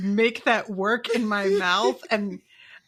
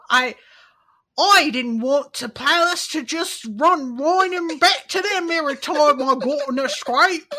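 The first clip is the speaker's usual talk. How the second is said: bad Dick Van Dyke cockney; 5 semitones higher, 6 dB louder than usual. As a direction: lay on a hammy Mary Poppins cockney. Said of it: "sound like Dick Van Dyke and Mary Poppins".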